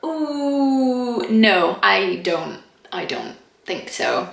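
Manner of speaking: drawn-out ooh, then dropping to a soft refusal; sceptical, trailing off; mock wary rejection; doubtful no. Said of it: "I'm just like".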